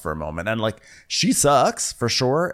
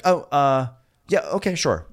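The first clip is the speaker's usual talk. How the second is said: higher-pitched mock hesitation; hesitant; 5 semitones higher than usual. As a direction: imitate her unsure, stalling agreement. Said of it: "she's, like, hesitant for a moment".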